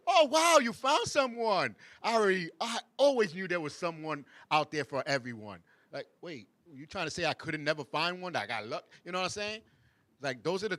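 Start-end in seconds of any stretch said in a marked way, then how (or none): 0.1-5.6 fake-sweet compliment. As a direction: sound delighted but mean the dig. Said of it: "but it is kinda sarcastic".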